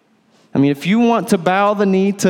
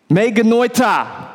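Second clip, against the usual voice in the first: forceful Greek negation, drawn out; firm, higher-pitched pronouncement; emphatic no; 4 semitones higher than usual. Shown as a demonstration. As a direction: declare it slowly and emphatically.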